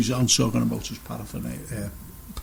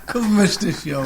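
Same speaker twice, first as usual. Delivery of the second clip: laughing repeat; 5 semitones higher than usual. Retold or imitated. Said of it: "he said".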